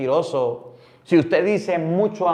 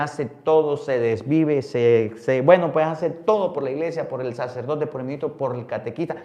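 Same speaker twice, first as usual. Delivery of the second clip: ordinary talk, nothing marked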